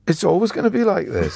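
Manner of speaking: recalled naive hope, said through a laugh; chuckling at his younger self. Retold or imitated. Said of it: "And I thought".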